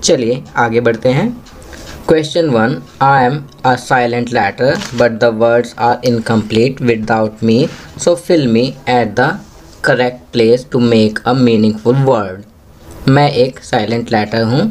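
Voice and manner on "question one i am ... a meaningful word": very slow, deliberate classroom reading; teacher's slow read-aloud; slow instruction reading. Shown as a demonstration. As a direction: read each English word slowly for young learners. Teacher reads question aloud.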